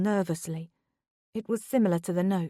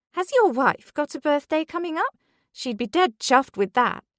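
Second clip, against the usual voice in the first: high-pitched, eager coworker; chirpy and whiny, pitched up; 8 semitones higher, 5 dB louder than usual. A narrator's reading. Whiny coworker voiced in story.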